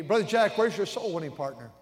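loud stern pastor calling him out. Retold or imitated. Pastor sternly asks the young preacher where his partner is. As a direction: call his name sharply, demanding. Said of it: "with a stern look".

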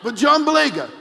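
can barely get it out for laughing; laughing while telling. Real, not acted. Telling the funny bird story to the congregation, laughing through it.

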